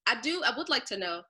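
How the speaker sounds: talking while eating fruit; words round a bite of fruit; mouth full. Real, not acted. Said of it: "Sorry, I'm eating fruit".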